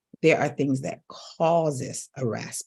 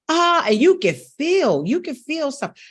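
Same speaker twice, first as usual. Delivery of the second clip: much higher, straining voice; 1 mock strained voice; 12 semitones higher, 6 dB louder than usual. Shown as a demonstration. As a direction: squeeze the words out high and tight. Acting strained discomfort.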